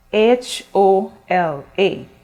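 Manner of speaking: slow, letter by letter; spelling out slowly. Shown as a demonstration. Teacher spelling the word for her students, slow and clear. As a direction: spell H O L A one letter at a time. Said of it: "look carefully at the spelling".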